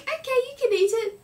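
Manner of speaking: mock panic. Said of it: "you'd be like".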